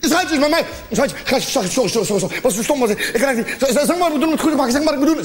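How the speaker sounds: acted panic. Panicking boyfriend phoning his girlfriend, gabbled pleading. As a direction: stammer apologies in a rising panic. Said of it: "Je raakt helemaal in paniek".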